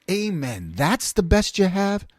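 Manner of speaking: slow, drawn-out question rising at the end; retold incredulous echo. Speaker seconding the principal, slow incredulous echo. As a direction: echo it slowly in mock disbelief. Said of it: "And I was like".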